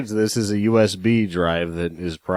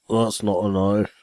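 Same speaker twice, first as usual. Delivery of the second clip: bad Australian accent. Quoting Crocodile Dundee to friends, a half-hearted Australian accent. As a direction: toss off a poor Australian accent. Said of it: "that was my Australian accent".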